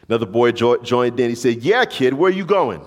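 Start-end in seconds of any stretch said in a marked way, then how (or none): 1.6-2.8 mock bully taunt. Second bully joins in.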